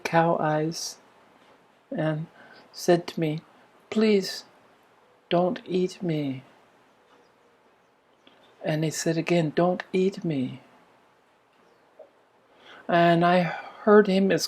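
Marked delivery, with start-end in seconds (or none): 3.9-6.4 soft, slow, lightly voiced pleading cow; a gentle hint of a cow begging for its life. Cow at the barn pleading with the boy, soft and slow. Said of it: "the pleading was in the voice". 9.5-10.6 quiet, slow plea, lightly voiced; a gentle hint of a cow begging once more; pleading cow. Cow repeats its plea to the boy, quiet and slow. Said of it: "the pleading was in the voice".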